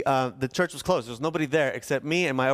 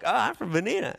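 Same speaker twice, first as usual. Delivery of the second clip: friendly small-talk reply; 7 semitones higher than usual. Retold or imitated. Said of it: "And I'm like".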